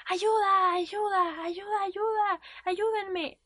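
high-pitched calls to passers-by; imitated shouting, pitched well up; retold cry for help. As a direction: call out for help, re-enacting a public scene. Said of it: "Y empecé a gritar".

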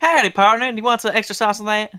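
high, put-on cowboy greeting; hammed-up Western twang; mock cowboy accent. Playing drive-thru worker in cowboy accent.

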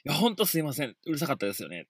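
soft, earnest apology to the neighbour; quietly apologising to the neighbour in the hallway; sincere apology. Retold or imitated. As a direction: say sorry humbly and quietly. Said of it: "もうほんと真摯に".

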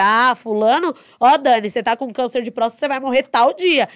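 loud, blunt doctor's verdict; blunt prognosis. Retold or imitated. Radiology tech imitating a blunt verdict to a patient, loud. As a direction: spell out the death date bluntly.

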